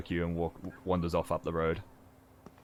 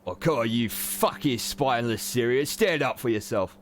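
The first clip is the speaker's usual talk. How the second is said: put-on Brelish accent; 5 semitones higher, 5 dB louder than usual. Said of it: "has a Brelish accent".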